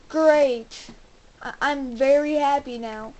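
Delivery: loud, sarcastic "great". Real, not acted. Player to viewers after house exploded, sarcastic. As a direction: feign being pleased after a disaster. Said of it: "That's sarcasm".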